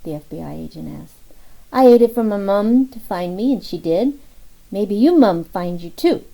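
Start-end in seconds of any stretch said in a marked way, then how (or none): 1.7-6.2 put-on high, louder child voice, earnest; a toddler earnestly comforting a grown man; sincere little boy. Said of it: "The little boy was so sincere".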